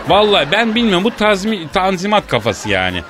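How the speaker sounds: mildly worked-up comic tirade; irritated rant. Acted. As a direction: grumble with a touch of exasperation. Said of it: "Kızıyorum ben bazen". (hafif sinirli, söylenir gibi)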